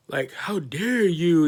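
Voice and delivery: high gasp, then slow prissy how dare you; mock outrage. Office staff scolds the kid, hammed-up shocked gasp. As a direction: ham up a shocked office lady.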